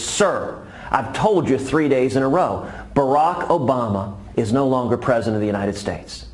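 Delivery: a fed-up guard repeating himself; frustrated Marine loses patience with the old man; visibly frustrated Marine. Acted. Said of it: "the Marine is visibly frustrated".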